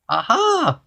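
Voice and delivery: high goblin aha with a smile; gleeful goblin. A narrator's reading. Goblin with a trick for Mister Uppity, smiling high voice. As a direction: squeak it slyly, smiling. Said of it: "smiled the goblin".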